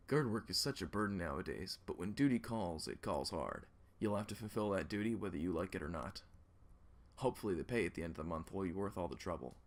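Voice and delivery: a weary guard on duty; gruff guard. Acted. Guard retake.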